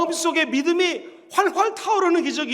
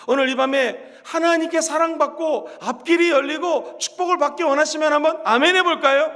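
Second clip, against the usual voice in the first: normal talking voice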